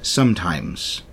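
low, slow pirate; slow, ominous sea-dog delivery. Acted. Pirate on plans gone wrong, pirate voice. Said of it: "I'm gonna do a pirate voice".

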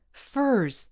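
contemptuous snarl. A narrator's reading. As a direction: bite the word off. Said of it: "he snarled".

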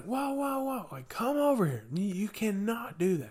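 high-pitched mock scolding, voice jumping well up; retold alarmed reprimand. Counselor calls over a kid who pushed, retold high-pitched reprimand. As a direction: act out stopping a kid in a high voice. Counselor stops a boy shoving.

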